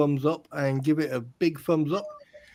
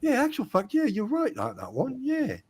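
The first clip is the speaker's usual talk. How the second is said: higher, lilting mock agreement; suddenly agreeable troll; 4 semitones higher than usual. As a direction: imitate a troll coming round, all conciliatory. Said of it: "they're like".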